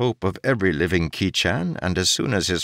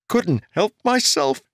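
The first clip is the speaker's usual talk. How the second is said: much higher, louder indignant retort; angry demand; 13 semitones higher, 4 dB louder than usual. A narrator's reading. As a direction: throw the words back at him. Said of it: "Jarek demanded angrily".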